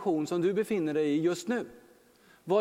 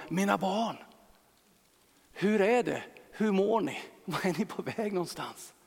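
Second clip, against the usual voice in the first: loving Jesus; 3 dB quieter than usual. Acted. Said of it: "så mycket kärlek som flödar ut".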